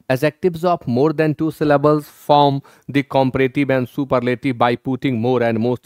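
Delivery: reading the rule out slowly, word by word. Shown as a demonstration. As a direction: dictate the textbook rule slowly. Reads English grammar rule slowly. (नियम धीरे-धीरे पढ़ना)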